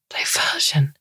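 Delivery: scornful whispered question; derisive. Acted. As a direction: sneer the word back at her. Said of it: "with all the derision she can muster".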